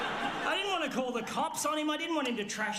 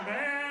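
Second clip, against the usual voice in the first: imitated crazed long cry; mock manic yell; 3 semitones higher than usual. Storyteller imitating Morgan running with the hammer, manic. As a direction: blare a wild wordless noise. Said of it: "this is supposedly his laugh".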